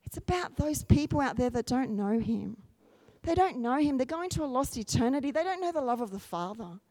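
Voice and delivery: soft, sinking preacher's voice; quiet concern for the lost; hushed, earnest appeal. Real, not acted. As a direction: drop the volume for a grave plea.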